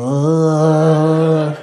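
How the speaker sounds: drawn-out queasy groan; mock retch. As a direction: groan as if vomit is rising. Mitchell retching in the cab.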